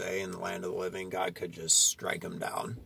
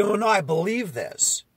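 lightly voiced higher-pitched protest; mimicked protest, pitched up; imagined objector; 10 semitones higher, 4 dB louder than usual. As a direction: put on an objector's raised-pitch reply. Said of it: "You might say".

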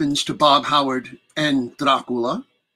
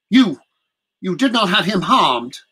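indignant; 4 semitones higher than usual. Acted. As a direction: demand it with offended pride. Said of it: "her fear gave way to indignation".

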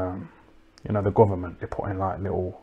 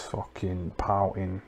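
whispered aside; 6 dB quieter, slower than usual. Real, not acted.

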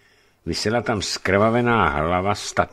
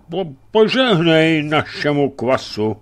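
hiccuping; 10 semitones higher, 7 dB louder than usual. Acted. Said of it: "obrátil se k němu škytavě".

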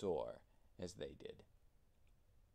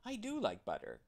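much higher, joyful cry; delighted cry; 12 semitones higher, 3 dB louder, faster than usual. A narrator's reading. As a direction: squeal it with delight. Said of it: "cried Tootle".

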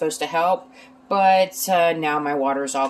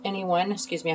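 interrupted by a hiccup; 3 semitones higher than usual. Real, not acted. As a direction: talk through the hiccups. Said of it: "I have the hiccups".

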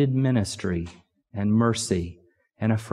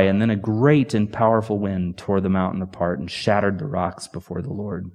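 ordinary talk

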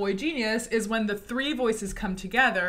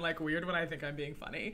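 lower, much softer voice; low and weird; 5 semitones lower, 10 dB quieter, faster than usual. Shown as a demonstration. Coach showing her low voice for jokes. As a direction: sink down low into a goofy voice. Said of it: "it gets really low".

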